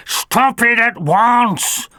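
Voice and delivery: mild stern command; firm command. Acted. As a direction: bring the howling to a stop. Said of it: "ordered Fix-It".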